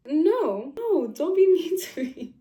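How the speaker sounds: high, loud, whiny mock of her; mocking whiny plea. Mocking the crying employee.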